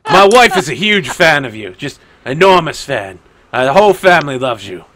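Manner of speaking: loud, emphatic fan gushing. Acted. Guard telling pirate his family adores him, loud gushing. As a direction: gush loudly over your idol.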